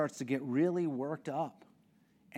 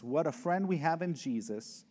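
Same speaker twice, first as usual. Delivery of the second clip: hymn lyric recital. Shown as a demonstration. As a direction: lift the old hymn words with feeling. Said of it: "one of the lines out of the hymns".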